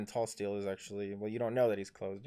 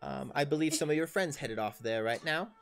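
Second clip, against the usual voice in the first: higher, lightly voiced helpful townswoman; NPC shopkeeper lady; 4 semitones higher than usual. DM voicing the lady NPC, higher helpful tone. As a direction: play the friendly lady pointing the way. DM voices Trillian giving directions.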